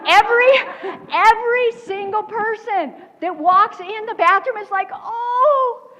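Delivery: laughing and crying while telling it; tearful laughing retelling. Retold or imitated. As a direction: gush through giggles. Everyone gushing over the baby.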